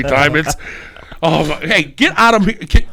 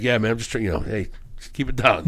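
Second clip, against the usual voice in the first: lower, softer hush request; dad asking to keep it quiet; 6 semitones lower, 7 dB quieter than usual. Retold or imitated. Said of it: "He was like".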